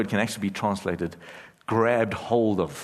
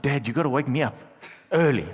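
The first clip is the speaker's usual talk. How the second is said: imitating young daughter; 4 semitones higher, faster than usual. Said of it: "she's like".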